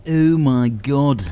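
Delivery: slow, drawn-out thrilled oh my God; excited. Real, not acted. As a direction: marvel at the new items. Unlocked new items.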